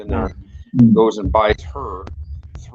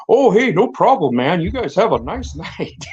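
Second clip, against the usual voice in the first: sudden scared appeasing; 9 semitones higher, 4 dB louder than usual. Retold or imitated. Man with a gun in his face hurriedly backing off, high and scared. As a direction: voice jumps way up and louder, eager to please.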